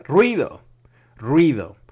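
loud scornful outburst; shouting. Real, not acted. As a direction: bark the word out in disgust. Host scorning Republican border trip.

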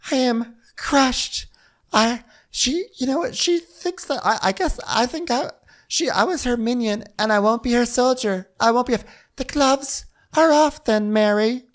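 very high, halting melodrama; mock wounded outburst. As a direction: sputter with hurt in a high-pitched voice. Acting out Whitney's dramatic outburst.

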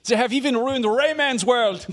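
hammed-up press conference host; mock Ubisoft announcer. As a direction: pitch it like a grand press reveal. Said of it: "doing impressions of, like, Ubisoft announcing stuff".

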